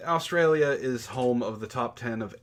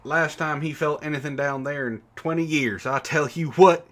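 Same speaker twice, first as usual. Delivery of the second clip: mock Southern accent; 3 semitones higher, 6 dB louder than usual. Host reads a viewer's chat joke, lightly in a Southern accent. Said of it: "I have to do an accent for this".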